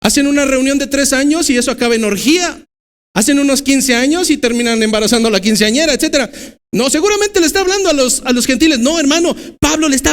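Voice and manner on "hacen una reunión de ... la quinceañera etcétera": higher, scornful voicing of churchgoers; mock self-righteous excuse. Preacher mimics smug believers blaming gentiles, higher and scornful. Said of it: "porque pudiéramos decir".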